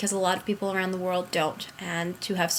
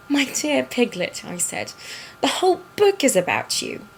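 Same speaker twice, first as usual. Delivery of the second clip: put-on higher storybook reply in a British accent; 4 semitones higher than usual. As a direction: answer like a British storyteller, pitched up. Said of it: "do it in that accent".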